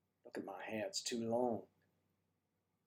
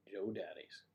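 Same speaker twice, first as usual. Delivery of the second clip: conspiratorial whispered punchline; whispered aside; 2 semitones lower, 8 dB quieter than usual. Acted. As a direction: sly whisper of the name.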